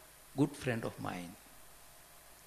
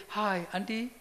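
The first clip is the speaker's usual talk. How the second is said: cheerful foreigner; 6 semitones higher than usual. Retold or imitated. European greeting cheerfully.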